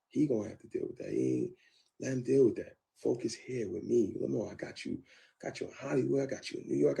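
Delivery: pleading. Retold or imitated. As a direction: plead with her to let it go. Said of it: "kicked some stuff up into me".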